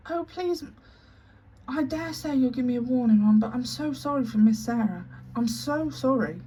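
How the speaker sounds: high, pleading through fresh tears; tearful plea. Acted. Maid weeps for Miss Sarah before the headmistress, high and tearful. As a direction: beg while crying. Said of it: "She burst into fresh tears".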